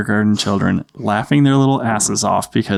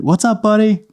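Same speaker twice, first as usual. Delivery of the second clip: high, sing-song parent voice; dad calling down; 11 semitones higher than usual. Retold or imitated. Dad upstairs answering his little son, high calling voice. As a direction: call lightly to a little kid downstairs.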